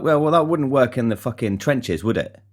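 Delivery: sarcastic retort. Retold or imitated. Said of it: "And I was like".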